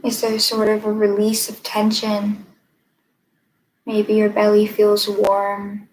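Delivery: measured meditation guide, long pauses between phrases; guided meditation. Acted. Meditation teacher leading listeners to notice their breath, unhurried guided meditation. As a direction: guide them gently inward, leaving space after each phrase.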